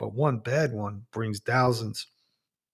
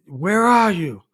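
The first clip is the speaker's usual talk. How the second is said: higher, startled question to the ghost; frightened wife; 6 semitones higher, 4 dB louder than usual. Retold or imitated. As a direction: ask it in a mild fright.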